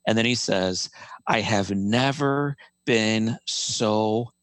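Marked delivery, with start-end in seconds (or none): 1.3-4.3 slow tender father. Retold or imitated. Father telling his burned son how proud he is, slow and tender. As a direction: savor every word like a proud dad. Father's loving words retold.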